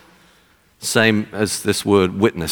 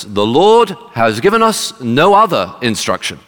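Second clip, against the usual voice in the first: retold booming pronouncement, mildly raised; loud voice; 2 semitones higher, 3 dB louder than usual. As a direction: announce it firmly, as an imitated boxer. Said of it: "said in a loud voice".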